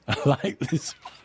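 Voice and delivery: chuckling through the words; amused, with a laugh breaking in. Real, not acted. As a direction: say it while laughing at the joke. DJ repeats line while laughing.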